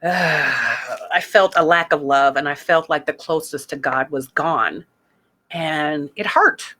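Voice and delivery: slow sigh, heavy and low; sad, slow. Real, not acted. Confessing to listeners how abandoned she felt, slow and sad. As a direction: let the hurt weigh each word, slowly. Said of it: "I felt guilty for having those types of feelings".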